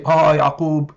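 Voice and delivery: mock scolding. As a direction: lecture like a mocking critic. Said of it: "condemn him and say".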